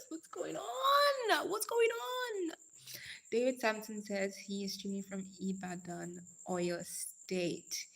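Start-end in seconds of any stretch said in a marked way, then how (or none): 0.1-2.5 high, slow, stretched-out call; drawn-out call. Real, not acted. Calling out to high schoolers.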